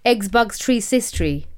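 mock Nigerian accent. Shown as a demonstration. Co-host testing the hack, put-on Nigerian accent. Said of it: "I went out with a Nigerian".

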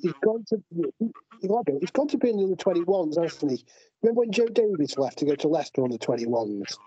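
distant, echoey phone mic; like talking from a cave; sounding far away. Real, not acted. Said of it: "You sound like you've gone very far away".

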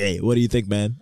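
mock the dramatic anime phone greeting; anime character voice. Friend imitating the anime voice on the phone, lightly hammed. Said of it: "you answered the phone as an anime character".

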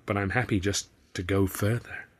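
lightly voiced lazy Southern drawl; a hint of a languid Southern purr. Visitor teasing Arthur in a light Southern drawl. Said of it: "my visitor drawled".

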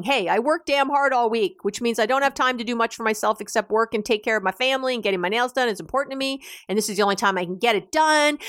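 fast, rushed defensive rant. Retold or imitated. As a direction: justify yourself in a hurried rant. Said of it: "myself defensively saying".

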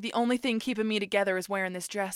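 quick, low Southern-accented imitation; imitated Southern accent, rattled off; Southern accent impression. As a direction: mimic the Southern heroine in a rush. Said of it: "I was taken out by the accent".

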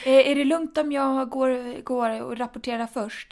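slow, loud, pleading voice; hammed-up timid plea; timid asking voice. Joking plea to leave.

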